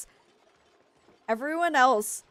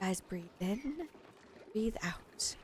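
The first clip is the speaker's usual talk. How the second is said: calming; 11 dB quieter than usual. Pretend. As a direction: breathe and calm them down. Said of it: "calming herself and colonists".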